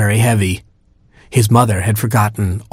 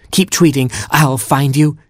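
calling out; 5 semitones higher than usual. Acted. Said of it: "he called".

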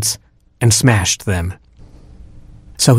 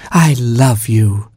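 slow, fond and tender; fondly; much slower than usual. Acted. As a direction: linger lovingly on each word. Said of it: "said the queen fondly".

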